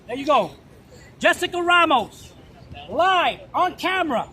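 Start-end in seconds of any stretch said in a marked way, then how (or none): 1.2-4.3 loud, slow announcement; calling out. Real, not acted. Activist announcing the senator to the camera, loud and slow. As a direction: call her name out for the camera.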